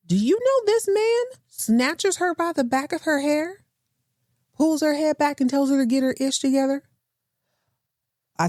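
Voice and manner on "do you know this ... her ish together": outraged disbelief. Real, not acted. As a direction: spell out the shocking act as if you can't believe it. Outraged at Chip grabbing her.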